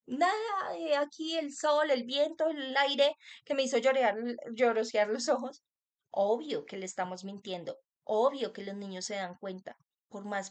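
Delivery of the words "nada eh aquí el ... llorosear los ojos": fake excuse. Parent lying about crying.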